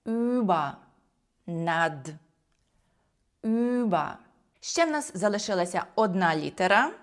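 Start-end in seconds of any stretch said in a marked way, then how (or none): 0.1-0.7 Über with a long rounded ü, pitched higher; Über ending in open "a"; U-umlaut. Shown as a demonstration. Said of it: "У-умлаут читається як звук". 3.4-4.1 Über with a long rounded ü, pitched higher; Über ending in open "a"; U-umlaut. Shown as a demonstration. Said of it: "У-умлаут читається як звук".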